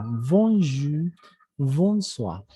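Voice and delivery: bonjour, bonsoir with nasal "on"; French O. Shown as a demonstration. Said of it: "Esa O francesa". (bonjour, bonsoir con la O francesa)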